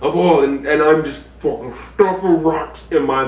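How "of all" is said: talking rock. Retold or imitated. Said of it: "He's like".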